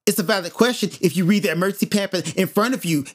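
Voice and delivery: quick, curt mock reply; lightly mimicked testy retort; imitating indignant attendant. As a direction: imitate a snippy attendant, rattling it off. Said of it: "and that's how she sound".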